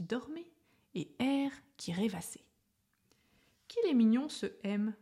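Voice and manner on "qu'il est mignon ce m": delighted coo. Acted. Admiring exclamation about M.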